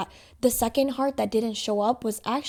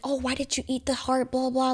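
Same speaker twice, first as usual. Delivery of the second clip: retold scolding, pitched higher; higher-voiced mock accusation; mock angry father; 4 semitones higher than usual. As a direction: imitate a dad telling off his son, mildly. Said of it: "he got mad at his son".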